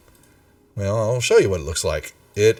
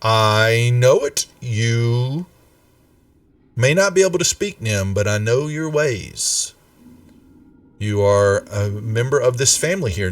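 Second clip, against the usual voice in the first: scolding mother. Acted. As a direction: scold him like a fed-up mom who caught him lying. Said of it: "she goes".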